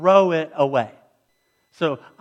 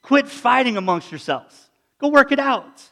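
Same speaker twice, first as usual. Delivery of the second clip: a raised, earnest voice of God urging; voicing God; 6 semitones higher than usual. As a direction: call them to make peace first. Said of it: "God's basically saying".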